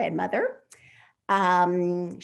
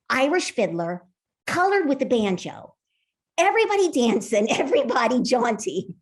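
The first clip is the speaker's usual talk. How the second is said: bright, quick storytelling voice; lively story reading; 2 semitones higher, 3 dB louder than usual. A narrator's reading. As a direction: read it as an excited young girl. Author reads her novel aloud.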